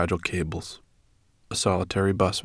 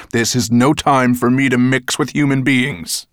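raised, louder dragon scorn; snorting disdain; 5 semitones higher, 6 dB louder than usual. A narrator's reading. Dragon refusing to go near humans, snorting. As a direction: dismiss the idea with a snort. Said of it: "snorted Nettlebrand".

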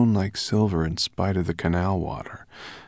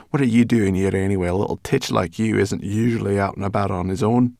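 quick, louder, scolding; brownie girl; 4 dB louder than usual. Acted. Brownie girl scolding the boy, quick and loud. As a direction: talk down to the little titch.

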